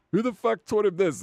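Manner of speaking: shocked outrage. Retold or imitated. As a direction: act appalled at the kid. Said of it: "I'm like".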